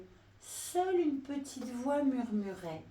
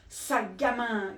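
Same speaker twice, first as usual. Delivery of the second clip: mild mock yell; crocodile yelling; 4 dB louder than usual. Crocodile yells after the monkey, mild mock yell. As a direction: scold the brat. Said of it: "hurlait le crocodile".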